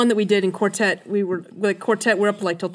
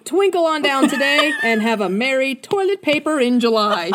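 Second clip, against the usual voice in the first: ad announcer voice; 3 dB louder than usual. Acted. Reading mock ad aloud.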